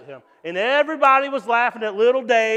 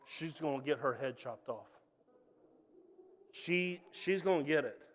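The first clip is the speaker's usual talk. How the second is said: lower, much softer, murmured worry; hushed gossip; 6 semitones lower, 12 dB quieter than usual. Acted. Palace servants gossip about Esther, hushed. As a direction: whisper it like a fearful courtier.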